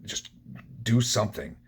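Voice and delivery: a held-back reenactment of screaming desperation; retold desperate scream. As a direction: cry out to God in mock scream. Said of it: "screaming at the top of my, my lungs".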